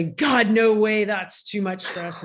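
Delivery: mock dread. Football player turning down the last play, mock dread. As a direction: recoil from the pressure, hammed up. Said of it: "half of the football players would say".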